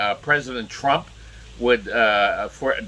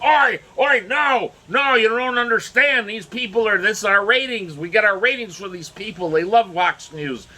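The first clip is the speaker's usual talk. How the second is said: high, exasperated mock Australian father; bad Australian accent; 10 semitones higher than usual. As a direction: protest in a badly faked Australian accent. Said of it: "my Australian accent is really, really terrible".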